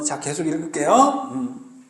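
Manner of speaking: ordinary talk, nothing marked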